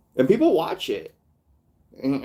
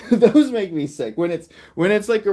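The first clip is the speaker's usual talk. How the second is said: disgusted; 7 semitones higher, 6 dB louder than usual. Real, not acted.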